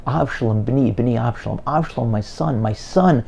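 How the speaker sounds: leise trauernd beginnend, zum lauteren Rufen anschwellend; grieving cry, building. Retold or imitated. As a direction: ein gespielter Klageruf, der sich steigert. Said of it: "He's crying, he's yelling".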